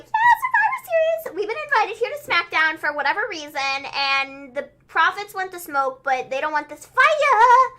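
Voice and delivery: high, loud hype voice, stretched at the ends; mock promo, drawing out the last words; hyped wrestler promo imitation. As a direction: mimic a wrestling team hyping up the crowd. Acts out the New Day's promo.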